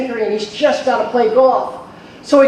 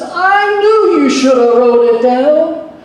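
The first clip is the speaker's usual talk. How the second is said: exasperated wife; 5 semitones higher, 4 dB louder, slower than usual. Acted.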